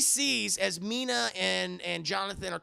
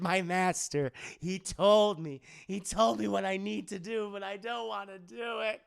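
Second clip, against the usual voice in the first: hammed-up madman pleading; lightly voiced deranged minion; crazy servant. Escaped Renfield speaks of his master, crazy mock plea. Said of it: "He's acting all crazy and shit".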